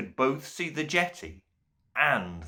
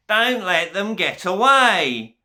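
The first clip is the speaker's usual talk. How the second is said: high, loud scream of rage; furious scream; 9 semitones higher, 7 dB louder than usual. A narrator's reading. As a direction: spit the word at them. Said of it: "the Duke screamed again".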